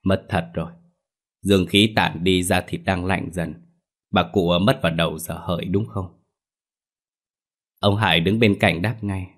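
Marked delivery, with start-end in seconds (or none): 0.0-6.2 regretful. Acted. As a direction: say it gently, sorry she is gone. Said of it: "nói với vẻ tiếc nuối". (giọng tiếc nuối, nhỏ nhẹ)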